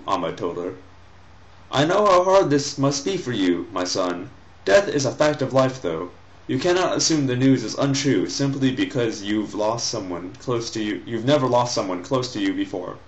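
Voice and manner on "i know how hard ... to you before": a hint of a lecturing mother; gently voiced mother consoling her son; reading the mother. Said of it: "the mother speaks to her son".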